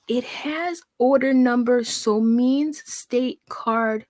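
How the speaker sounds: painfully slow, word-by-word read; squinting at nonsense, very slowly; very slow mock reading. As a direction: crawl through the garbled sentence. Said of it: "let's try that again".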